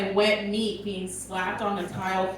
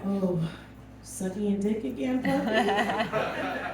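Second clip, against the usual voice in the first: shaming the dog; 2 semitones lower, 6 dB quieter, slower than usual. Retold or imitated. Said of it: "I'm just like".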